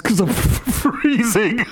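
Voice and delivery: slow, high, laughing through it; cub's punchline. Acted. Cub to its mother, slow and laughing at the punchline. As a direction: deliver the punchline, cracking up.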